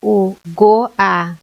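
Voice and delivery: go-a sounded out as one syllable; syllable split demo. Shown as a demonstration. Teacher showing a syllable to students, sounding it out. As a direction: show that go-a stays together. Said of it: "não posso separar".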